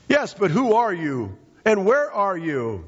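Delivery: high-pitched, puzzled stranded climber; calling up from below. Acted. Jack asking the unseen voice, calling up. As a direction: call high questions up to an unseen voice.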